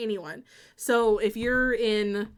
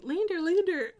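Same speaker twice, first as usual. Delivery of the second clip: playful sing-song; 8 semitones higher than usual. Retold or imitated. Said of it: "I kept going".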